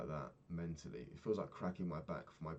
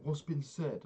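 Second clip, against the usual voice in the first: retold shouting; 9 semitones higher, 4 dB louder, slower than usual. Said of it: "he's shouting at his girlfriend".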